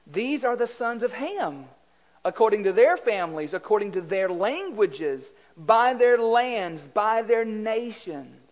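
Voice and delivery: slow, measured Bible reading; scripture reading. Acted. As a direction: read each clause deliberately. Reads scripture aloud.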